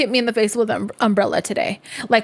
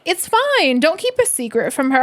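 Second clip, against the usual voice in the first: high reassurance; 5 semitones higher than usual. Retold or imitated. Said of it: "And I was like".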